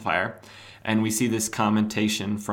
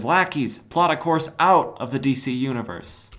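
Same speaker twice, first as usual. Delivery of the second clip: villain command; 4 semitones higher than usual. Acted. Cobra commanding his lackeys.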